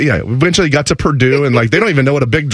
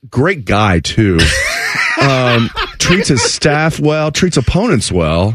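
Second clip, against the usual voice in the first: sarcastic; 2 semitones higher, slower than usual. Acted.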